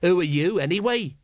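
a hint of shaky bravado; rallying thug. A narrator's reading. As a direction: force the words out. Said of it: "did manage to find his voice".

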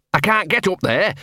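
high, plaintive protest; whining dog. A narrator's reading. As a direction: whine helplessly, high in the voice. Whining dog cannot climb.

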